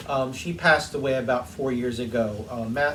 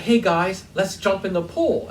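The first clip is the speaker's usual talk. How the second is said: imitating mother-in-law; 4 semitones higher than usual. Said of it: "she was like".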